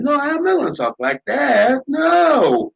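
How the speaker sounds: high, swooping refusal; exaggerated, protesting no; emphatic refusal. Real, not acted. Emphatically refusing the voice just mimicked.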